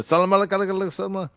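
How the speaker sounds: mock Arabic greeting in Arab accent; lightly put-on Arab accent. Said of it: "Arab accent or something?".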